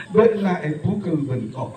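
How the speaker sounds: put-on Madurese line "Benak e pukul bengkok" said through laughter, Madurese accent; chuckling Madurese quote "Benak e pukul bengkok"; laughing Madurese. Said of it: "di Madura kan".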